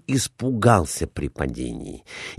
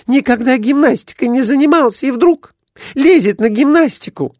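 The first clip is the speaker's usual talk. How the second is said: very high, loud shrill scolding wife; 4 dB louder than usual. A narrator's reading. Wife scolds her drunk husband after his fall, very high and loud. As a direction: scold him like an angry wife.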